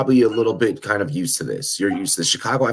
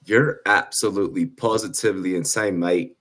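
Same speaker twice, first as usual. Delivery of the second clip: hammed-up British accent sliding into Irish, much higher; mock British accent drifting Irish; 9 semitones higher than usual. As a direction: play a cheeky Brit who drifts into Irish. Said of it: "That, that accent started drifting to an Irish accent".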